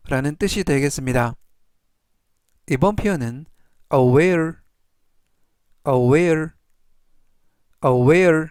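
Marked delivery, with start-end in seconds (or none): 3.9-8.5 aware said clearly and louder, three times; teacher modelling aware for learners to repeat; model pronunciation. Shown as a demonstration. Teacher drilling aware for the class, slow and clear. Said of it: "이라고 발음하시면 되겠고요".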